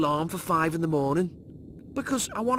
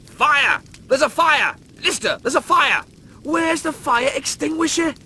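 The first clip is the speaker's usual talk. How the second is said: high, loud hysterical shouts; panicked screaming; 8 semitones higher, 7 dB louder than usual. Acted. Rimmer shrieks at Lister about the fire, panicked screaming. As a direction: shriek the alarm over and over.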